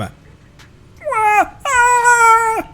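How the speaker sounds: very high frantic puppet shriek; Kermit scream. Acted. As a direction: shriek like a panicked frog puppet. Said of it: "a Kermit scream".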